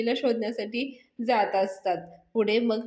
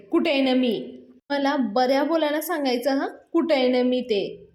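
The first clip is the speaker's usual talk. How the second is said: calling out; 3 semitones higher than usual. Acted. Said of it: "नमी करत ओरडत आतमध्ये येते".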